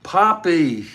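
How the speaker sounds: Poppy shouted high and loud, falling at the end; excited cry. Retold or imitated. Daughter greets her father with a joyful cry of Poppy. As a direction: call out Poppy with delighted surprise. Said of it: "P O P P Y".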